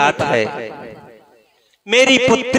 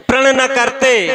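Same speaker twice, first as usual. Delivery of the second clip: pleading echo, a touch higher; 4 semitones higher than usual. Retold or imitated. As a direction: echo the words प्रण न करते, lifted a little. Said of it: "उसने बताया कि".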